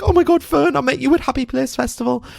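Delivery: very high, excited retold reply; retold gushing. Audience member to speaker on stage, excited gushing. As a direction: re-enact a star-struck squeal of words.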